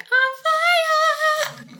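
high, sung-out hype call; Parks and Rec guy. Retold or imitated. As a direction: belt it like a sitcom hype man. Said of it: "like the guy from Parks and Rec".

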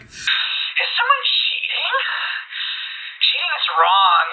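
halting, high oddball murmur; Fang murmuring. Acted. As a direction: mumble it like a half-aware brute. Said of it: "Fang kind of murmuring".

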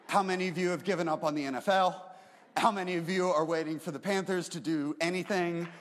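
rally the room with jokes; playful crowd banter. Real, not acted. Pastor teasing football fans in the congregation, loud playful banter.

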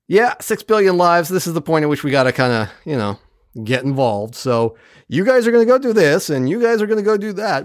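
breezily dish out orders in a mock briefing; imitated no-nonsense leader handing out jobs; offhand commander briefing. Retelling a commander's casual briefing.

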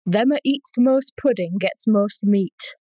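put-on slow, deliberate Yorkshire accent on an old saying. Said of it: "put on my best Yorkshire voice".

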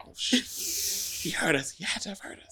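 hushed, whispered dread on the last line; inner panic. Retold or imitated. Recalling the moment he overheard, hushed panic. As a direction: think it to yourself in panic. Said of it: "internally, I was like".

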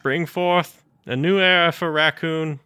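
high, loud wise elder voice; prophesy like a tiny wise master; Yoda voice. Retold or imitated. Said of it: "Full on Yoda".

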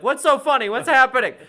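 imitating the blindfolded actor asking what's going on; confused mock voice. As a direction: play the clueless guy who can't see.

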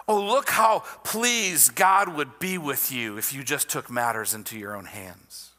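hushed, coaxing serpent voice; serpent whisper. Acted. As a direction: whisper like a sly serpent luring. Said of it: "The little serpent whisper".

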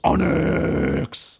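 drawn-out monster calling its name; long, put-on rock-monster bellow; creature's cry. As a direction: stretch the name into a creature roar. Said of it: "and goes".

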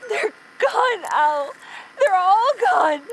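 choked, high sobbing words; crying. Acted. Katie grieving her loss, crying. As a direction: cry it out, barely holding together.

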